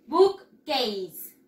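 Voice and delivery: "Bookcase" in two slow, separate beats; careful pronunciation. Shown as a demonstration. Teacher modelling "Bookcase" for pupils to repeat, careful. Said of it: "pronunciarlo correctamente".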